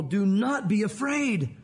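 slow, measured proclamation; slow, deliberate recited quote; solemn scripture reading. Retold or imitated. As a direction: read it out slow and weighty. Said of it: "And Moses says this".

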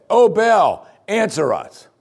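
high, loud wailing call to Baal; crying out to Baal. Acted. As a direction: cry out desperately to a pagan god.

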